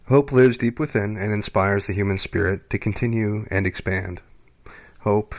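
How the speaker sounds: measured, solemn card reading; oracle card reading. Acted. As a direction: read it like a calm inspirational oracle. Reads an oracle card aloud.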